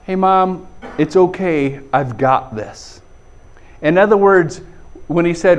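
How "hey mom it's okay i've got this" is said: easy reassurance, slowing and dropping at the end; reassuring son. Acted. Son telling his mom he has it handled, reassuring. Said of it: "he was essentially saying".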